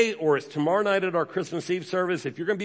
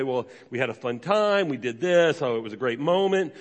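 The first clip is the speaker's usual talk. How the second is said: lower, offhand shrug of a reply; mock casual answer; 4 semitones lower than usual. Imitating a churchgoer's offhand reply, lightly lower. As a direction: toss it off like it was nothing much. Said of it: "you might say".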